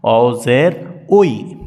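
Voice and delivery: "উই" as a long rounded "wee"; slow chant landing on drawn-out "উই", "wee"; correct reading. Shown as a demonstration. Teacher applies the example to the letter, "উই" as long "wee". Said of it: "এখানে উচ্চারণটা ওরকম হবে".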